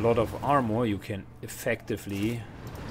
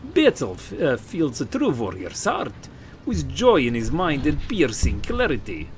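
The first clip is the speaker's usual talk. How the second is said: loud, higher Scottish warrior; a forced Scottish accent, pitched up; 5 semitones higher, 5 dB louder than usual. Acted. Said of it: "my Scottish accent is escaping me".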